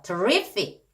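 terrific with the stress on RIF; stress on second syllable. Shown as a demonstration. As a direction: punch the middle of terrific, light first syllable. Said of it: "강세가 뒤에 있어요".

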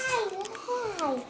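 squeaky helium-high hi. Shown as a demonstration. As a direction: chipmunk voice from helium. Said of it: "This is how you're gonna talk".

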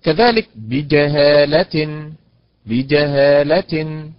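بجهالة drawn out very slowly; a slowed model reading of بجهالة; slow stress demo. Shown as a demonstration. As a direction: stretch بجهالة out syllable by syllable. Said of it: "أول الكلمة ثلاث حركات".

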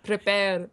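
"Prepare" with the R rolled on the tongue. Shown as a demonstration. Streamer showing how Scots would talk, rolled R in "Prepare". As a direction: trill the R in "Prepare". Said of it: "roll their R's like".

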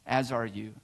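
low, soft, contented reply; quiet satisfaction. A narrator's reading. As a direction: answer softly, well satisfied. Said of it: "with satisfaction".

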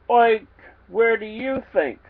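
high grunting pig voice. Acted. Pig answering the narrator's question, high grunting voice. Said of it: "grunted Geschnozzle".

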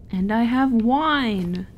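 slow, loud triumphant announcement; excited. Real, not acted. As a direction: draw it out proudly. Triumphant over found wine.

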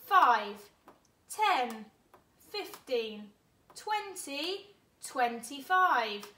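loud, rhythmic counting; counting in fives. Shown as a demonstration. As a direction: chant the fives for the class. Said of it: "Count in fives with me".

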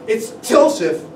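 calls the name out loud and harsh; a hard, resentful announcement at the door. Acted. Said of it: "Loudly, harshly, she called into the room".

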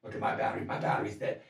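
soft whispered complaint. Retold or imitated. Friend whispering about the dead phone near Oprah. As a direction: keep it hushed and unvoiced.

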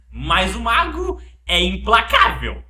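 slow, grave, unshaken reply; solemn slow voice. Pretend. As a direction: declare it calmly like a wizard. Resposta do Mago. (voz solene e lenta)

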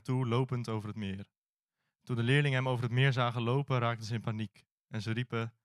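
steady, measured Bible reading voice; scripture reading. Acted. Preacher reading Matthew to the congregation, measured reading voice. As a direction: read the passage aloud to the church, evenly.

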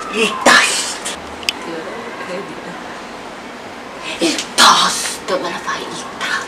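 breathy whisper. Acted. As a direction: whisper it close and low. Whispered to make her laugh.

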